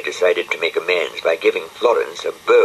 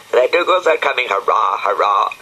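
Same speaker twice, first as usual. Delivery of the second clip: mock cheer; 3 semitones higher, 3 dB louder than usual. The speaker cheering and mocking.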